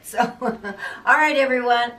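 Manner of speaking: slow and laughing through the words. Real, not acted. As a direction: chuckle through the wrap-up. Laughs while wrapping up.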